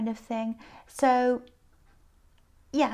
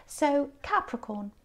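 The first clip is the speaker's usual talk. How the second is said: tired, croaky voice; a bit hoarse from tiredness; 2 semitones lower than usual. Real, not acted. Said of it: "sorry about my croaky voice".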